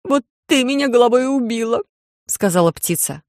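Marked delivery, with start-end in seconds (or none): 0.0-1.8 high, accusing crow. A narrator's reading. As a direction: scold like a sulky crow.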